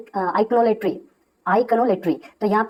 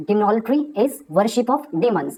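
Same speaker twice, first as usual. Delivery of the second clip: slow definition; much slower than usual. Shown as a demonstration. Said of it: "teacher summing up definition".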